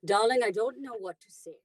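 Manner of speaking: theatrical darling voice; Sarah voice. Shown as a demonstration. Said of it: "Here's my Sarah".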